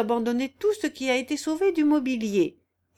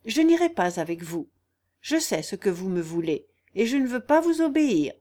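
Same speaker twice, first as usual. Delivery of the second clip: firm refusal. Acted. Niece refusing to obey her aunt, firm. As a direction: refuse firmly, no wavering. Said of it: "répondit Jeanne avec une fermeté".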